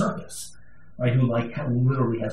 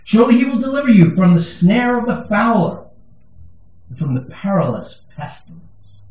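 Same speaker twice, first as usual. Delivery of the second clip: scripture reading; 2 semitones lower than usual. Acted. Preacher reading Psalm 91 to the church, measured.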